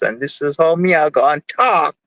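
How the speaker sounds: lightly put-on Jamaican accent; a playful hint of Jamaican accent; slight Jamaican accent. Shown as a demonstration. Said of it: "I change my accent like this".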